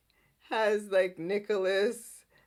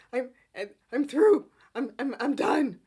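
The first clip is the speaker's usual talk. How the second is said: mock rant; 4 dB louder than usual. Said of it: "he goes off on Adam".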